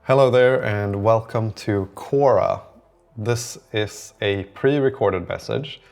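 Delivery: slow, measured phone-greeting delivery; record a welcome message, word by word. Pretend.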